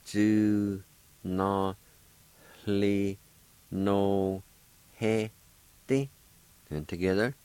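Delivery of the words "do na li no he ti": Don, na, li, no, he, sk spelled out syllable by syllable with a faint h before he. Shown as a demonstration. Teacher breaking the word into syllables for learners. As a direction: break it into slow separate syllables. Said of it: "like this".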